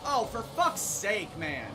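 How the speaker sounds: loud, drawn-out frustrated groan of a curse; exasperated curse. Real, not acted. Gamer cursing at his crash, loud and exasperated. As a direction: let the crash get to you. Crashing in wet race game.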